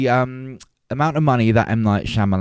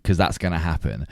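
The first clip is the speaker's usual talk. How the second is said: dry and understated, as if doubtful; unintentionally sarcastic; 2 semitones lower, 4 dB quieter than usual. Real, not acted. Host on friend's dream of winning a bafta, unintentionally sarcastic. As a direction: let it sound accidentally sarcastic. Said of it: "that sounded sarcastic".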